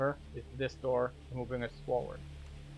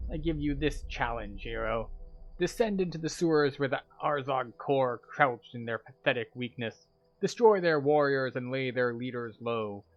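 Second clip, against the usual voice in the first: lightly voiced proud warlord, louder on commands; grudging warlord; 4 dB louder than usual. Player reading the quest giver's challenge, a touch of bluster. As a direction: issue the challenge like a mild hammed-up commander.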